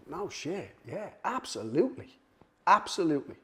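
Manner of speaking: acting out an impressed, willing yes; eager acceptance. Cut man accepting the UFC job offer, eager.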